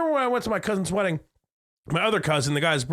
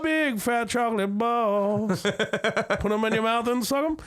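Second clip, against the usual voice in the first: slow crude taunt; 3 semitones higher, slower than usual. Pretend. Crude joke line, slow.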